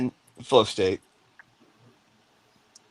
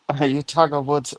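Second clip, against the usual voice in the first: put-on half-hearted German accent, breaking into laughter; badly faked German accent, amused at yourself; German accent attempt. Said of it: "I can't do the German".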